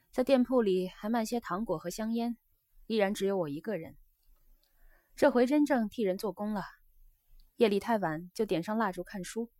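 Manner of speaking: lightly voiced geisha, a little livelier; a hint of an earnest young geisha; geisha confiding. Geisha tells her guest of changes at home, confiding.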